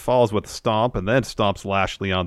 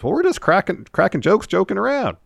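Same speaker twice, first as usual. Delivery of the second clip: high excuse; 12 semitones higher than usual. Retold or imitated. Retold sheepish excuse.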